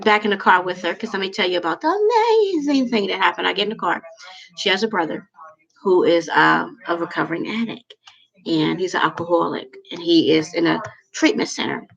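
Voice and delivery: usual speaking voice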